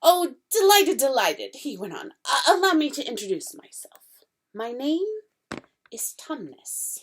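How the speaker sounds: an overjoyed faun tumbling over words; fawn's voice, bursting with delight; excited fawn. Acted. Fawn voice held.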